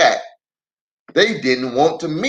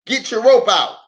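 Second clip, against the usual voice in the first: high, louder country command; Lem's order; 8 semitones higher, 4 dB louder than usual. Acted. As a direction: tell them to fetch the rope. Lem orders brothers.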